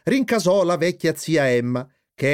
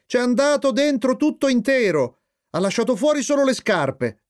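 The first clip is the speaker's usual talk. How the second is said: high-pitched gleeful telling; triumphant; 10 semitones higher than usual. A narrator's reading. Flip reporting Jeep's leap into the TV, triumphant. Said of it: "precisò Flip trionfante".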